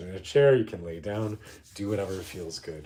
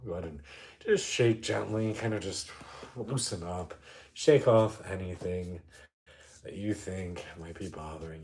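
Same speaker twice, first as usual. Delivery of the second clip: calm meditation guide, with long pauses; guided meditation. Real, not acted. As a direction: ease listeners into noticing, unhurried.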